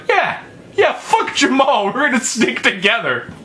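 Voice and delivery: squeaky high girly imitation; high-pitched valley girl mimicry; high mocking girl voice. Second girl's quote, retold.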